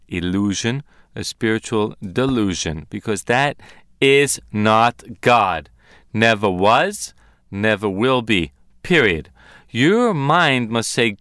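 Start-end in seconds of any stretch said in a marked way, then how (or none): 4.0-9.3 slow, low, weighty pronouncement; emphatic denial. Real, not acted. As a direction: lay down each phrase as final. Emphatic denial of a false premise.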